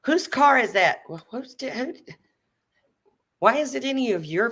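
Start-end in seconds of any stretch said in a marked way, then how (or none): 0.0-1.0 high, loud mimic of the nosy question; mocking nosy landlady. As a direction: parrot her demand in a high voice. Echoing the landlady's demand.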